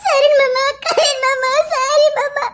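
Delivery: sobbing grief. Acted. Grieving over uncle, crying.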